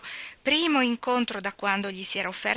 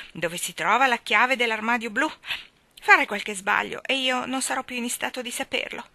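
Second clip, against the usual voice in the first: lightly voiced fretting aunt, a bit louder; Aunt Pallet, fussy; 3 dB louder than usual. Aunt Pallet instructs her husband about the keys, lightly fretful. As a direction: nag about keys and her own death. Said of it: "disse zia Pallet".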